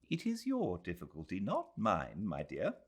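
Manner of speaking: put-on quick, gently dry older woman; a touch of an elderly lady; a hint of an old lady. Mrs Moore answering Adela, lightly dry.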